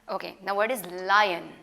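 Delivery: lion said slowly as LY-un, long ai vowel; teacher modelling lion carefully; correct lion. Shown as a demonstration. Teacher modelling lion for young students, slow and careful. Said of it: "it's not loin".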